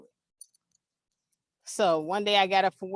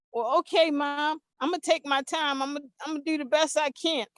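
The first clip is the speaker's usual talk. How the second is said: higher-pitched, earnest son's voice; imitated agreeable son; 6 semitones higher than usual. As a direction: play the son reassuring mom. Son reassures his nervous mother.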